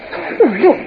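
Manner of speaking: light laughing delight as she points; amused laughter. Acted. Lady spotting a fish from the ship's rail, laughing. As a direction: laugh through the words, charmed by the fish.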